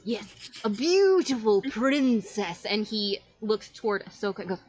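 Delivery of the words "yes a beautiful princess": slow, grand magician voice; showman magician. Acted. Magic man answering the child, slow and grand. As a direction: draw it out like a stage wizard. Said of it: "And he goes".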